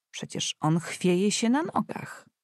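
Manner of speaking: lightly voiced worried housekeeper, slow; a hint of an anxious old housekeeper. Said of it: "rzekła ochmistrzyni". (lekko zagrana zatroskana ochmistrzyni)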